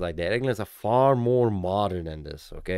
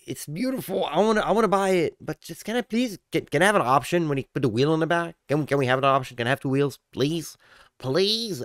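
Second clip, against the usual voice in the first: high, fast whiny begging; pleading; 6 semitones higher than usual. Acted. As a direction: beg like a kid for a toy. Begging for a rear wheel.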